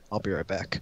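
quick whispered aside; whispering. Real, not acted. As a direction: whisper it, stepping away. Steps away from game.

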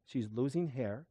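soft and slow, a worried mother's words; hushed, slow retelling of the mother; quoting the mother. Retold or imitated. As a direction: say it slowly and softly, as the mother did. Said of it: "She goes".

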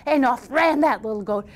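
storyteller stretching key words for drama; lively, theatrical fairy-tale telling; animated story narration. A narrator's reading. Tells a folktale.

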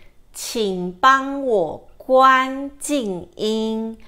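slow, distinct Mandarin quote; quoting locals. Retold or imitated. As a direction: say it like a local on the train. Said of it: "you will hear people say".

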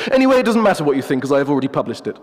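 a hint of a haughty professor; pompous wolf. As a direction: play the wolf as a self-important academic. The wolf dismisses.

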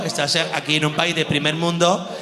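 calm lecturing friend. Retold or imitated. Spanish friend lectures him calmly.

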